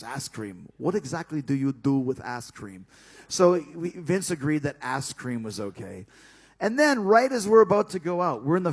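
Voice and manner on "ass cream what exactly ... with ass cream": Bubba's line. Retold or imitated. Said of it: "Bubba's big line was".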